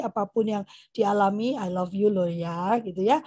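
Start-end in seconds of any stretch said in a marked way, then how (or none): 1.5-2.8 put-on slow, tender reassurance to a child; slow loving reassurance. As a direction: reassure the child gently and slowly. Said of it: "Apapun yang terjadi". (pelan dan menenangkan)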